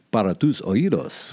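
deep, dramatic announcer voice; fighting game announcer. Shown as a demonstration. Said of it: "I like to try out my announcer voice".

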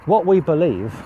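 a hint of pulpit preaching. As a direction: preach it out with rising conviction. Preaching the message to camera.

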